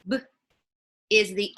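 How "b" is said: "b" said on its own as one short sound; onset sound alone. Shown as a demonstration. Teacher showing parents the onset of bat, isolated sound. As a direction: give just the sound "b", not the letter name. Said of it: "if you have the word bat".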